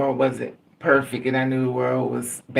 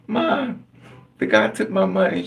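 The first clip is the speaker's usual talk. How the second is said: put-on high, kid's voice tattling; whiny little kid; 6 semitones higher than usual. Robbed boy telling his mom, in a high kid's voice.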